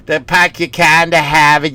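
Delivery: hacky Boston accent imitation. Comic mocking hacks who do Boston, hammed Boston accent. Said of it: "when you go to Boston and they".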